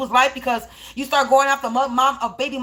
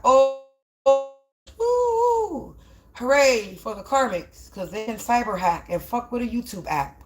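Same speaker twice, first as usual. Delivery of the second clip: sarcastic cheer; slower than usual. Acted.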